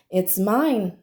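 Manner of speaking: smiling, sunny and kind; a touch of cheerful sun. Acted. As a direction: say it with a smile like the sun. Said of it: "smiled the sun".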